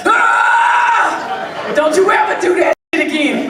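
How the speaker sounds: high loud laughing shout; outraged yell. Pretend. Man telling his partner never again, outraged shout. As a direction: bark it like a man offended to his core. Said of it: "want that man to be like".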